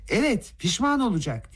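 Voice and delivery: high, ringing threat; shouting. A narrator's reading. Rogojin shouts at Gavrila, high threat. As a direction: shout it across the room. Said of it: "diye bağırdı Rogojin".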